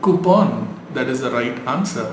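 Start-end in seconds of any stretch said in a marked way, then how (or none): 0.1-0.5 coupon as koo-PON; English pronunciation. Shown as a demonstration. Teacher modelling English usage, English pronunciation. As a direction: say coupon with a long, open last syllable. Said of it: "You pronounce it as".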